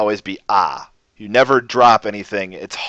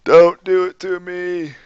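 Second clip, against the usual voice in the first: higher, louder, pained exaggerated complaint; mock anguish; 4 semitones higher, 5 dB louder than usual. Real, not acted. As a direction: play up the horror at a wrong vowel. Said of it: "It hurts my brain".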